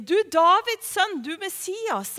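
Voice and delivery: half-strength imitation of calling out; retold call. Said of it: "er egentlig det han sier".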